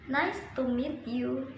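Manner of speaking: "Nice to meet you" with the tune falling at the end; falling intonation. Shown as a demonstration. Teacher models falling intonation in a statement, falling tune on "you". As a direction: let "you" drop at the close, as a statement. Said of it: "It is fall".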